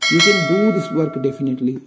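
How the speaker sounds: slow example sentence. Shown as a demonstration. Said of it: "ये इसका sentence हो गया".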